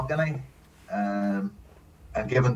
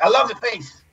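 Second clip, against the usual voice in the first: gushing director; 10 semitones higher than usual. Retold or imitated. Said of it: "He's like".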